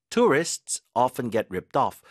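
very slow, "Tourists" stressed; slow model sentence. Shown as a demonstration. Teacher reading the tourist example slowly. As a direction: read it slowly and clearly. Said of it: "get ripped off라는 표현으로".

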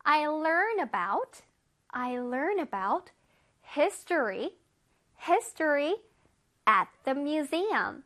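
I read books at the library, every word drawn out; slow example sentence. Shown as a demonstration. Teacher reading an example sentence slowly to kids. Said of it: "우리 같이 해볼게요".

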